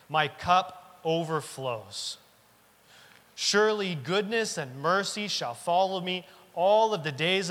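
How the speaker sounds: slow, deliberate reading of the psalm; slow scripture reading. Shown as a demonstration. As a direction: read each word slowly so it sinks in. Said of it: "I'm gonna read it slow".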